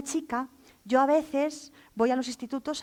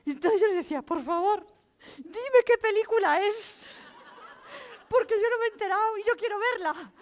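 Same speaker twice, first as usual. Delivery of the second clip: higher, laughing, begging voice; laughing plea; 8 semitones higher than usual. Real, not acted. Storyteller begging the teen for the film's title, laughing. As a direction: plead through laughter. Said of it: "estaba llorando de risa".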